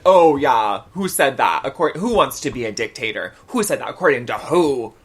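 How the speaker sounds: put-on loud, challenging Wisconsin accent; mock an indignant grandma in a Wisconsin accent. Grandma disputing the dictator claim, indignant Wisconsin accent. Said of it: "is she suddenly from Wisconsin".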